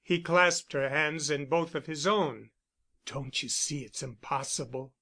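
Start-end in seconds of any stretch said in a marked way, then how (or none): 3.0-4.9 soft, hushed, lower plea; whispered. A narrator's reading. Bent pressing Camilla close, softer hushed murmur. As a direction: hush it, close and low. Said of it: "he whispered".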